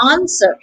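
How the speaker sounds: "answer" with the broad British AH, no R; British pronunciation. Shown as a demonstration. Teacher contrasting the British version with the American one. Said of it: "in British English, it's pronounced".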